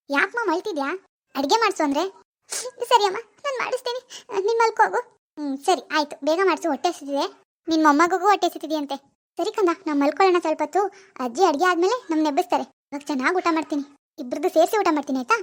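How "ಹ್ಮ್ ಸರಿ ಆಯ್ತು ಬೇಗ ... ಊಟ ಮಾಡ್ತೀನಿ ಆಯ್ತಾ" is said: put-on lower, hushed young woman lost in a delusion; disturbed daughter. Daughter Swathi's role voice.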